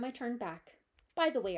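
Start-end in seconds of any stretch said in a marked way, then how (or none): 1.1-1.6 squeaky voice. Acted. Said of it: "I squeaked".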